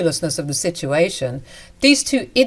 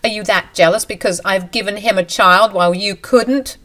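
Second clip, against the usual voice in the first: angry scolding; 5 dB louder than usual. Acted. Husband and mistress berate wife.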